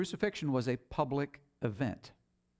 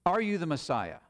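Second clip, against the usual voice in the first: commanding high priest; 3 semitones higher than usual. Retold or imitated. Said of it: "the high priest looks at Jesus and he says".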